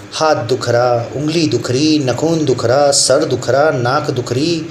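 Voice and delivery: sing-song mimicry of a whining student; mock complaining. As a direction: list each ache with the same lilting rise. (शिकायती छात्र की लयदार नकल)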